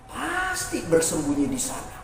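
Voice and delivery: low, soft wolf voice; wolf murmuring to itself; prowling wolf. Acted. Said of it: "kata serigalanya".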